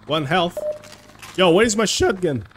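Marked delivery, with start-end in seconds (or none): 1.4-2.4 squeaky cracked voice. Real, not acted. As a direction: voice cracking on the question. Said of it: "that voice crack".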